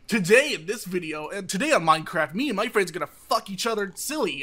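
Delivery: YouTuber voice. Retold or imitated. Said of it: "the thing that all Minecraft people started doing".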